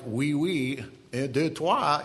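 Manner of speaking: schoolbook French in a Maine accent. Shown as a demonstration. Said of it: "like I do with a Maine accent".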